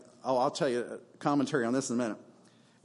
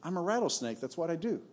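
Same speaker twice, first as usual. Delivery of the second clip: softer, matter-of-fact shrug; a quiet, cool snake; cold snake; 4 dB quieter, faster than usual. Acted. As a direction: state it as plain fact, unbothered. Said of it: "And the snake says".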